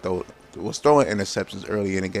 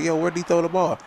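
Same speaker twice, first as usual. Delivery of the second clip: high, startled yo of disbelief; confused shout; 9 semitones higher than usual. Retold or imitated. Retelling his reaction to the throw, high startled question. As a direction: ask it startled and lost. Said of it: "and I'm like".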